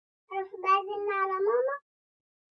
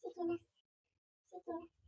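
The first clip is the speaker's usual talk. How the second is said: همس لنفسها; 5 semitones lower, 17 dB quieter than usual. Acted. Repeating a self-warning.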